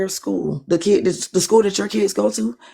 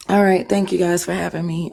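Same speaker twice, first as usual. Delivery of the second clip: hoarse voice. Real, not acted. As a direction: voice worn out, hoarse. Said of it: "my voice is gone".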